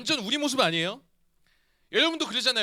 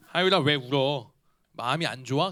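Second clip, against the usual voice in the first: retold soothing father; 7 semitones lower than usual. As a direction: gently ask what is wrong, pitched low. Father soothing crying daughter, retold. (우는 딸을 달래는 아빠처럼 낮고 천천히)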